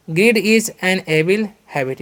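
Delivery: very slow, word by word; slow classroom dictation; slow example sentence. Shown as a demonstration. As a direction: spell it out slowly for the class. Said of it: "ऐसे भी बोल सकते हैं".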